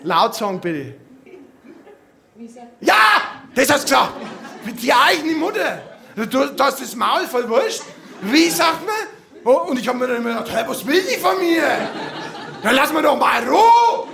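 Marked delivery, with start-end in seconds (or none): 2.8-8.9 scolding mother. Retold or imitated. Mother scolds child to thank. 10.5-14.1 put-on louder, irritated kid's grumble; annoyed retort. Child's annoyed inner retort.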